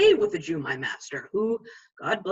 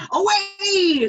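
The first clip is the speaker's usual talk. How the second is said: higher, louder cry of the fiend; urging fiend; 11 semitones higher, 6 dB louder than usual. Retold or imitated. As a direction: fling the word out like a tempter. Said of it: "says the fiend".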